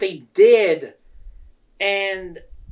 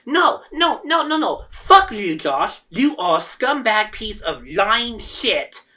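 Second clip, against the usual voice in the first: higher and louder angry outburst at the boss; angry refusal; 4 semitones higher, 3 dB louder, slower than usual. Retold or imitated. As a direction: fling it back at him, furious. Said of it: "That's how mad I am".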